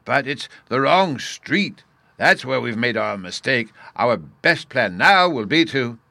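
cheerful. A narrator's reading. Professor explains the mix-up to Bruno, cheerfully. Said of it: "the professor cheerfully replied".

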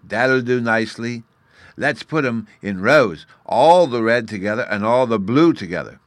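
put-on a child catching on to the trick; knowing tone. A narrator's reading. Fairy boy realising the plan, knowing and eager. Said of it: "with quite a new meaning".

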